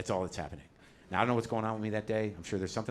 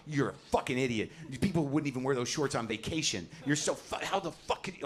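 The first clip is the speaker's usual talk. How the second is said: retold seething, voice held at normal volume; seething fury; 2 semitones higher than usual. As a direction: act out furious muttered thoughts, rising in pitch as words fail. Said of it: "I was so furious".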